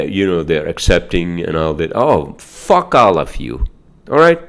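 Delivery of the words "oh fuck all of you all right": real irritated rant; angry outburst. Real, not acted. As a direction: spit it out at the whole group, then challenge them. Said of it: "I may sound like an angry guy".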